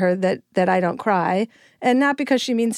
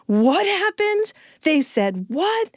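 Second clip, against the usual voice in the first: slow, higher inflaming gasp; mock alarmed parent; 8 semitones higher, slower than usual. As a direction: overreact like a parent fanning the drama. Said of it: "the parent who used to say".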